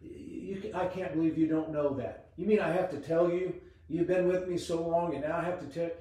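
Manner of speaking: imitating an impatient rebuke, mildly, picking up speed; a hammed-up exasperated scold, fast; mild mock exasperation from a disappointed master. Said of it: "the Lord isn't gonna be upset with you and say".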